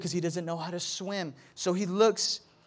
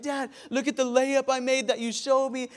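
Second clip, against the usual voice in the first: high-pitched eager boy imitation; Zion; 6 semitones higher than usual. Son telling dad about his layup, imitated eager child. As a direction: pitch it up like a kid showing off. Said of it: "Zion's like".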